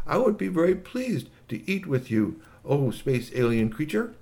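a hint of a formal translator; lightly voiced translator device. Communicabobulator accepts lunch for Igglypop, lightly voiced and polite. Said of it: "got his communicabobulator to say".

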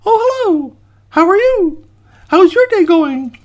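loud, very high squeaky greeting; cheery gingerbread boy. Acted. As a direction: pipe up brightly and innocently.

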